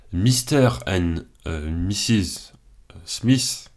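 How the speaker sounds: slow, self-mocking English accent on the title. Reading the film title aloud, in a joking mock English accent. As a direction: drawl the title like a fake Englishman. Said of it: "Super accent anglais".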